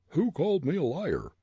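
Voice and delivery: fierce captain demand. A narrator's reading. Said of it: "Gregg demanded, fiercely".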